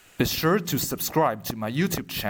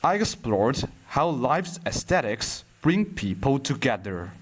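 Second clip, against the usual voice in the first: measured poem reading with long pauses between lines; poetry recitation. Acted. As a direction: recite it line by line, unhurried.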